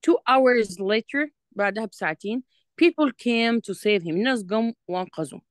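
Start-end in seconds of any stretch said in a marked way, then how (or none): 0.1-1.3 slow, louder dictation of the English line; slow reading aloud. Shown as a demonstration. Reading the script aloud slowly. 2.8-4.1 slow reading aloud. Shown as a demonstration. Reading the script aloud slowly.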